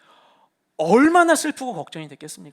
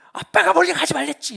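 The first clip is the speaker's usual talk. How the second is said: higher, louder scold; angry scolding dad; 7 semitones higher, 5 dB louder than usual. Retold or imitated. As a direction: snap at the kid half-mockingly. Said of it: "원망과 분노가 먼저 일어나요". (아이에게 화내는 아빠, 크고 높게 꾸짖듯)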